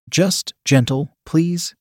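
slow, lightly moaned plea. Acted. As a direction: draw it out, lifting on the last word. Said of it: "I moaned".

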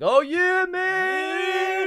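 very high squeaky mock tough voice; mock bro. Bragging to straight riders, squeaky mock macho. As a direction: squeak out a fake macho yeah. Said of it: "And like".

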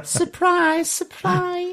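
high falsetto Scouse Surprise surprise; Liverpool accent. Pretend. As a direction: sing it out like the show's famous host, Liverpool accent. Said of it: "You have to say it in Liverpool accent".

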